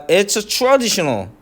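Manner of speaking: it's traditional very slow, traditional stressed; slow model reading. Shown as a demonstration. 선생님이 it's traditional을 천천히 시범. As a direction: draw out it's traditional slowly. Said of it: "자".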